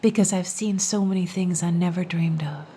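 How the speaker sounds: whisper. Acted. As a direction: trade riddles in a hush. Whispered riddle dialogue.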